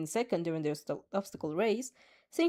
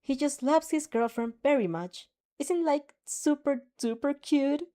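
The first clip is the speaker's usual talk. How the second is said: chirpy; 6 semitones higher than usual. Acted.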